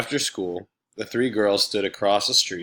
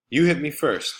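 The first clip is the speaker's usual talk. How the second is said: daring; 6 semitones higher, 4 dB louder than usual. Acted. Kids daring each other to fight.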